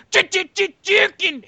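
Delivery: high, stuttered mock chatter; high-pitched mocking imitation; imitated server outburst. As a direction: sputter it out like a cartoonish server.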